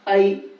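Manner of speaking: ائی with a clear open "a" gliding to "i"; ma'ruf vowel in ائی, a clean a-to-i glide; ma'ruf reading. Shown as a demonstration. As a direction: say ائی as the diphthong "ai", not "ay". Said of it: "معروف پڑھنا ہے".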